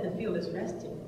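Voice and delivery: low, soft, understated reply; calm answer. Retold or imitated. Retelling the Lord's reply about the field, calm and soft.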